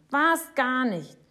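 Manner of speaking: slow, high, loud denial; shouting. A narrator's reading. Boy denying the fib to Papa, shouting slowly. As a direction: yell it again, stretched out. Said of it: "schreit Jonathan".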